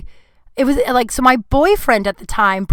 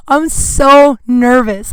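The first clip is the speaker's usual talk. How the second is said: slow, drawn out; 4 dB louder, much slower than usual. Real, not acted.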